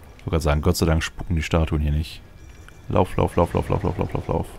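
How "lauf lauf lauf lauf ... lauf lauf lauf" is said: being chased. Real, not acted. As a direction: hurry yourself along while fleeing. Fleeing a boss, urging self.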